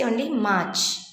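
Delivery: fast, March with a faint R; March, a gentle R; slight R in March. Shown as a demonstration. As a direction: let a slight R sound in March. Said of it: "That slight R sound should be heard".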